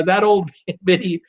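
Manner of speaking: laughing through the words, slowed; can't hold back a giggle mid-read; reading a chat name while cracking up. Real, not acted.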